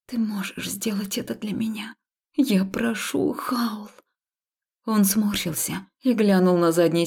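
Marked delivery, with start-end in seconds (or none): 0.1-3.9 soft whispered request; pleading whisper. Acted. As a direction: keep it whispered, begging. She keeps whispering her plea. (шёпотом, с мольбой)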